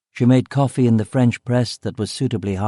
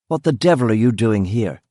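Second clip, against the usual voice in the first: mildly irritated challenge; a touch of undisguised dislike; open dislike. Acted. Sir Harry confronting visiting policeman, mildly hostile. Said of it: "not even attempting to conceal his dislike".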